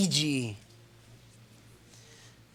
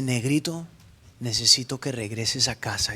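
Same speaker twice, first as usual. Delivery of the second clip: a touch lower, soft and fatherly; lightly voiced God; 9 semitones lower, 4 dB quieter than usual. God calling the preacher home, lightly lower voice. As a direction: call him gently, like God.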